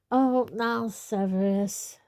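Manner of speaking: tipsy with hiccups; slow words broken by hiccups; hiccuping. Acted. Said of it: "hiccuping again".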